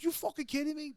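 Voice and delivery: high-pitched angry repeat; furious yell. Retold or imitated. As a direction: yell it again, in disbelief. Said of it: "Remy lost his shit".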